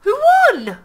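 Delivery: high-pitched indignant outcry; indignant demand. Real, not acted. Player demanding to know who won the chess game, indignant.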